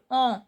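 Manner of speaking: "En" as a nasal "on"; nasal sound. Shown as a demonstration. Teacher demonstrates E N to students, nasal "En". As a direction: say "En" through the nose, without a full n. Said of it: "E N is nasal sound".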